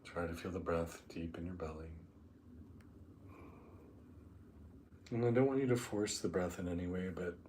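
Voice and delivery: unhurried meditation guide, long pauses between phrases; guided meditation. Acted. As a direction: ease them down into the breath, drawing out key words.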